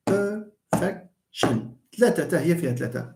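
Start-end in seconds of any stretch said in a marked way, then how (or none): 0.1-1.8 perfection drawn out slowly, stress on -fec-; slow model word. Shown as a demonstration. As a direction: stretch perfection syllable by syllable. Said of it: "the word perfection".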